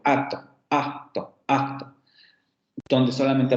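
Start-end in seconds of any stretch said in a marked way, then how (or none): 0.0-1.9 slow acto where the k falls away to a bare implosion; dropped k in acto. Shown as a demonstration. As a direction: swallow the k in acto, just a catch. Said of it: "esas consonantes terminan cayendo".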